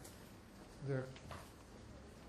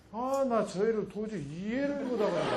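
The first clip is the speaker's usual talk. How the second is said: exasperated mother; 3 semitones higher than usual. Acted.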